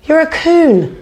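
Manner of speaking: angry retort. Real, not acted. Woman rounds on her opponent in a street row, angry. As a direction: throw it back at him, offended. Heated argument, insulting the man.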